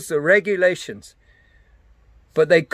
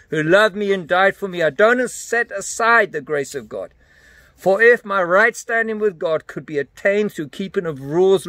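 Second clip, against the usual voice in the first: declaring scripture to the devil. Acted. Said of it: "I literally take the word of God".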